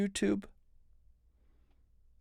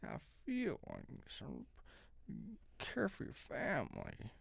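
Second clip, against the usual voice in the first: mock groveling politician; 12 dB quieter than usual. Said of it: "groveling kind of thing that they put into their voice".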